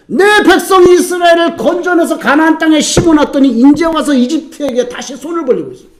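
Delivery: a rising shout of divine indignation that falls away at the end; God's indignant outcry. Acted. Preacher voicing God to the congregation, indignant shout. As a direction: cry out like God betrayed by His people.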